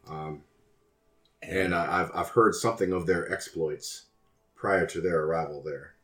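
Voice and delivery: polite, measured fixer voice; smooth courteous schemer. Acted. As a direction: speak like a sly, courteous broker. Alistair speaks in character.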